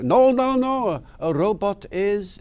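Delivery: put-on high, insistent South African accent; South African accent, pitched well up. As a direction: imitate a South African driver explaining. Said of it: "says in a lovely South African accent".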